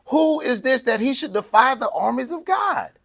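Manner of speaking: high, fired-up indignant question; passionate challenge. Retold or imitated. Preacher voicing David, outraged at the giant, passionate and high. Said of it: "David was so passionate about this".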